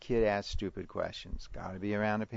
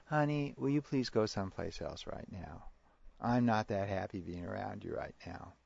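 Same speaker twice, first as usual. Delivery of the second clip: calm parent; 3 dB quieter than usual. Shown as a demonstration. Models calm parent response.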